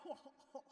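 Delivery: imitating a weary audience groan, breathy ho ho ho; mock tired groan. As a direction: sigh out a drained ho ho ho. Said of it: "the sound tells you the answer".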